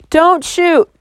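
high scared cry; scream. A narrator's reading. Girl screaming at the sheriff aiming at her. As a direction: throw it out in panic. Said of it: "I screamed".

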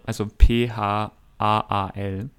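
letters spelled out slowly, one by one; spelling out. Shown as a demonstration. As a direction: spell "P H A A L" letter by letter, slow and loud. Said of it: "das heißt Pfahl".

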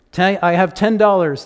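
loud auctioneer call. Acted. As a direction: call out the bid to the room. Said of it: "the auctioneer called".

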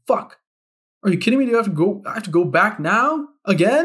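high, disbelieving "are you kidding me"; frustrated squeal of disbelief; exasperated outburst. Retold or imitated. Exasperated self-quote at wrong envelope.

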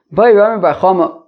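holding back a laugh; reading while fighting the giggles; stifled giggles. Real, not acted. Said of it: "I'm trying not to laugh".

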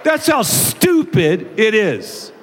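loud, slow, high exclamation; emphatic punchline. Real, not acted. Pastor scolding F-bombers after his example, loud and emphatic. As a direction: hammer home how ridiculous it is.

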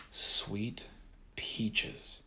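soft, breathy whisper; low whisper. A narrator's reading. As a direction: whisper in awe. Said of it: "in a low whisper".

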